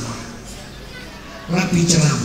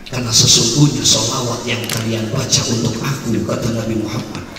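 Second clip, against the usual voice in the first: gentle explanation; 4 semitones lower than usual. Acted. Preacher gently translating the hadith for the young man, low and calm.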